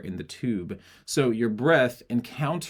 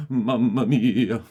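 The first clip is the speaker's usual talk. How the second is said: slow, drawn-out, hammed-up Mamma mia; playful mamma mia; 5 dB louder, slower than usual. Shown as a demonstration. Teacher plays with breath on a slow mamma mia. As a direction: stretch it out like a silly vocal exercise. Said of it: "those are all different things".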